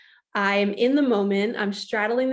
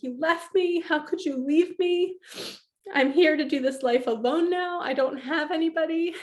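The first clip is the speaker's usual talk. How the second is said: mock wounded outburst; 7 semitones higher than usual. Angry plea to her late dad.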